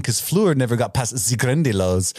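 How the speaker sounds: mimicking a French accent, badly; mock French accent. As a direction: tease with a botched French accent. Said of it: "making fun of her accent".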